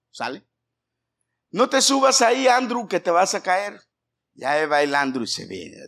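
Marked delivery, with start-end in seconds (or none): 1.5-3.8 put-on higher, louder call to the toddler; louder warning. Shown as a demonstration. Parent warning toddler Andrew not to climb, raised voice. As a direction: warn him sharply from across the room. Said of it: "Vamos a agarrar a Andrew".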